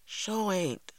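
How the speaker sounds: put-on high child's agreement; agreeing small boy. A narrator's reading. Little brother backs up the complaint, agreeing. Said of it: "agreed Little Man".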